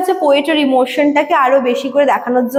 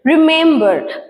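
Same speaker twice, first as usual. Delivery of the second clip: রিমেম্বার with the middle মেম stressed; রিমেম্বার as unstressed-STRESSED-unstressed; stress on middle syllable; 2 semitones higher, slower than usual. Shown as a demonstration. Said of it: "মেমটার উপরে বেশি focus হচ্ছে".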